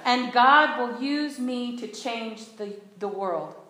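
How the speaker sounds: slow, emphatic declaration; measured call with added feeling, easing at the end. Shown as a demonstration. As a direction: lead the repeat with conviction. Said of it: "with a little more feeling".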